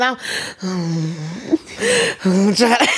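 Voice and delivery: stifling a cough; strained, cough held back; holding back a cough. Real, not acted. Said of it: "trying to swallow the cough".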